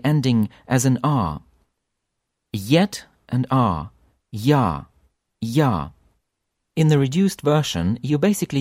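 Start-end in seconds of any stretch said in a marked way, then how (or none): 2.5-5.9 Yet and R said slowly, then joined into Ya; Ya in two parts. Shown as a demonstration. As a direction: build Ya from yet and R. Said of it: "sound Ya consisting of two parts".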